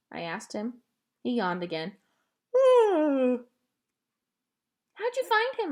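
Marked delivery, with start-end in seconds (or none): 2.5-5.7 amazed question. A narrator's reading. Girl amazed at finding dog.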